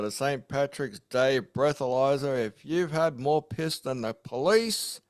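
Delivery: put-on hammy Australian Irish accent; bad Irish accent. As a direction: fake Irish accent, lightly done. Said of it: "that bad Irish accent".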